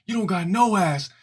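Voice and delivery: put-on high teasing kid voice; taunting kid. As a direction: boys tease a girl with a high mock insult. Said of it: "We'd be like".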